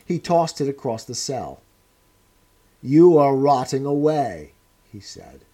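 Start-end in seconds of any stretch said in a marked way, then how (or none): 2.8-4.5 cold, louder scornful lecture; a hard interrogator sneering at a wreck; stern interrogator. Acted. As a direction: press the prisoner's ruin on him. O'Brien berating Winston.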